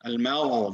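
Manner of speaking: Al-Magha with gh flowing freely from the upper throat; correct ghain. Shown as a demonstration. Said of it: "You allow the airflow just to be free".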